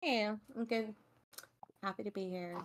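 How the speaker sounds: weary, very hushed, quiet and slow voice. Greeting the others on arrival: tired, low energy. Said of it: "my energy is low 'cause I'm tired".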